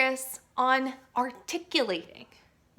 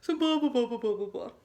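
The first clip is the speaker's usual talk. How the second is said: bottom of voice. Shown as a demonstration. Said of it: "find the very bottom of your voice".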